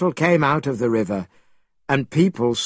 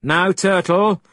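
higher, slow hail; crying out; 5 semitones higher than usual. A narrator's reading. Monkey addresses the turtle, crying out. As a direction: cry it out as a measured command. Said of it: "he cried".

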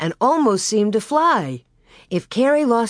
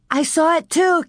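high, breathless after running; panting; 9 semitones higher than usual. A narrator's reading. Carrie running from the wolf, breathless and high. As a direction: gasp it out as she runs. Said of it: "Carrie panted".

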